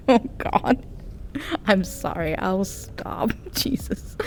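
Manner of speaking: weak, hushed words through real laughter; helpless laughter. Real, not acted. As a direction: apologise while breaking up laughing. Helpless laughing at own bad accent.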